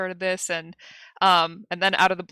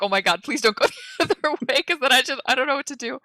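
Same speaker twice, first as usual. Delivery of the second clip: fast, higher, with a nervous laugh; mock panic; 6 semitones higher, faster than usual. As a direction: rush it like a fretting newbie. Retold panic at player choice.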